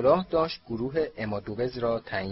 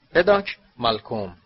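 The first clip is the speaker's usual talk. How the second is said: loud roll call; calling out a name; 7 dB louder than usual. A narrator's reading. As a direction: call the name across the hall. Calling names from a list.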